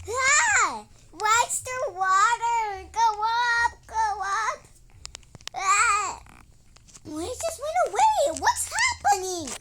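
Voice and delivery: high, loud frightened shrieks; shrieking in a frightened panic; panicked screaming. Acted. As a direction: scream in a sudden flood panic. Water floods the house.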